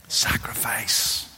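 slow breathy whisper of one word; hushed whisper. Real, not acted. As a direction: let it fall into silence. Solemn single word after quote.

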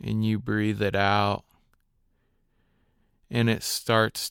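calm, unhurried meditation guide with long pauses; guided meditation. Acted. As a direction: guide listeners gently through their breathing, leaving space between phrases.

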